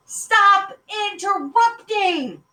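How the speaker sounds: high, loud, stretched-out yell; dad at the end of his patience; father shouting. A narrator's reading. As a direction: bellow each word slowly at the kids. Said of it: "Mister Franklin shouted".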